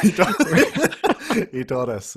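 high laughing repeat. Real, not acted. Guest laughing at his own Biden joke. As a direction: let the laugh carry it.

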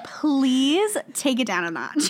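slow, drawn-out mock plea; imitated pleading boss. Imagining the boss's reply in a meeting, slow mock plea. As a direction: stretch out a mock-weary request. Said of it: "She's like".

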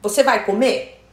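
"comer" lifted into a question; demonstrated Portuguese question melody on "comer"; question by intonation. Shown as a demonstration. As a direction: turn "Você vai comer?" into a question by tune alone. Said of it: "É a entonação".

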